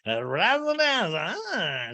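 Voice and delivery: mock excited and happy; high-pitched gleeful babble; hammed-up happy imitation; a singer. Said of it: "like, excited and happy".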